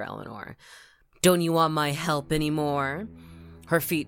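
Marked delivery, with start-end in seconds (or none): 1.2-3.1 put-on very old woman. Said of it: "The old woman regained her wits".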